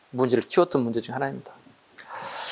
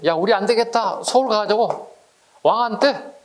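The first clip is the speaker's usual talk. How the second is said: higher, mildly indignant resolve; a touch of a fed-up crowd, raised pitch; indignant peasants; 5 semitones higher than usual. Retold or imitated. Peasants resolving to confront the king, mildly indignant. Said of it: "이러는 거예요".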